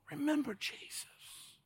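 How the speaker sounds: soaring high, slow plea; high slow cry. Acted. Preacher cries out to congregation to remember Jesus. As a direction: stretch it up high.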